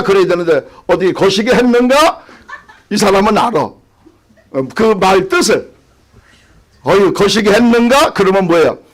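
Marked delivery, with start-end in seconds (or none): 0.9-2.2 Jeolla question with a rising end; Jeolla dialect. Shown as a demonstration. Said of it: "전라도 말로 거시기". 6.8-8.1 Jeolla hail and rising question; Jeolla dialect. Shown as a demonstration. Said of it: "전라도 말로 거시기".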